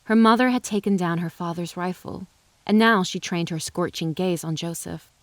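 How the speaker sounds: ordinary delivery, nothing marked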